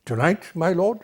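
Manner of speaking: rising, startled "my lord?" at the end; dismayed question. Retold or imitated. Desdemona questioning the order to leave tonight, mildly dismayed. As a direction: ask it in mild shock. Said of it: "Desdemona's response is one of consternation".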